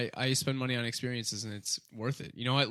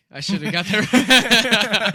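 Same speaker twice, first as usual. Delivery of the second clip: drawn-out groan; 9 semitones higher, 13 dB louder, much slower than usual. Real, not acted. Groaning at a missed joke.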